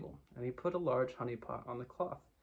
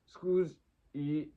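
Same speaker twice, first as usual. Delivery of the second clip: louder, mumbled through stuffed cheeks; mouth full; 3 semitones higher, 5 dB louder than usual. Acted. Tigger excusing himself to Pooh and Piglet, mouth full. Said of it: "mouth was full of acorns".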